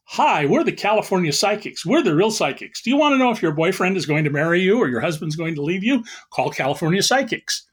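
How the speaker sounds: lightly voiced TV ad pitch; a hint of a psychic hotline commercial. Journalist likening Trump's answers to TV ads, light mock pitch. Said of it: "this guy is like those T V ads".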